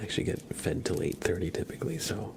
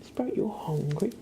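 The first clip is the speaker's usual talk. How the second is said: cat-teasing singsong; 8 semitones higher than usual. Real, not acted. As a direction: stretch it out in a high singsong, swooping up at the end. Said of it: "I always say it like that".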